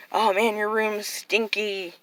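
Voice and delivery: slow, drawn-out retold nagging; mock complaining. Big sister to little sister about her room, mock gripe. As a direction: stretch it into a playful gripe.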